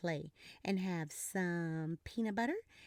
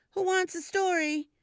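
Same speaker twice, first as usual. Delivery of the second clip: cheerful mom voice; 8 semitones higher, 7 dB louder than usual. Acted. Mommy voiced by reader.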